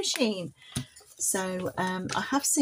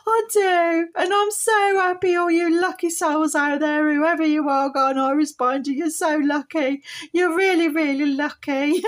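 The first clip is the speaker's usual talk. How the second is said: happy puppet voice; 6 semitones higher, 5 dB louder than usual. Pretend. Puppet Polly cheerful.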